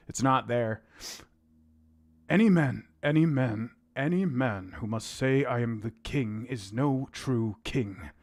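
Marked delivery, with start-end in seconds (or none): 2.3-8.1 lightly voiced stern lord, slowing at the end; a hint of Tywin's measured menace; closest Tywin attempt. Shown as a demonstration. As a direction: Tywin Lannister, slow and grave. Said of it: "about as close as it's gonna get".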